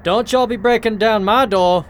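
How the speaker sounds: scolding. Acted. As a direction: tell her off for banging on the door. Shopkeeper scolds girl at door.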